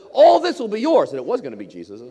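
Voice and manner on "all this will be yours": high, booming tempter's promise; grand offer. Acted. Satan offers Jesus all the kingdoms, grand shouted offer. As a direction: proclaim it loud and high, dangling the prize.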